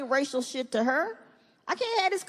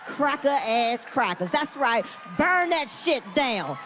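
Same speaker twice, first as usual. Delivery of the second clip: angry ranting at the TV; 2 semitones lower than usual. Acted. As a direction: vent at the screen alone. Ranting at riots on TV.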